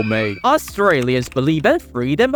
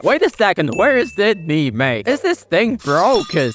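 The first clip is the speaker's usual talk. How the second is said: higher-pitched, baffled protest; mock disbelief; 3 semitones higher than usual. Traveler finds Sydney missing from the quiz answers, mock disbelief. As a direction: question it in put-on bewilderment.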